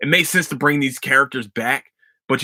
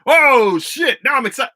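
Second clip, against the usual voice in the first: sudden high burst of fake excitement; a hammed-up gasp of delight; mock excitement; 13 semitones higher, 5 dB louder than usual. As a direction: blurt it as a sudden realization. Mock realization about the finale.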